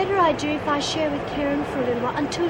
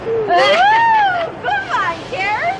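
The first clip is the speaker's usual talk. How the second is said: laughing; 11 semitones higher, 6 dB louder, much slower than usual. Acted. Inmate laughs at Karen's joke.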